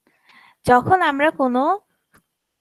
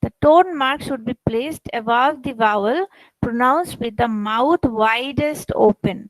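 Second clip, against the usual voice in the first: slow reading aloud; much slower than usual. Shown as a demonstration. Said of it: "When the final of".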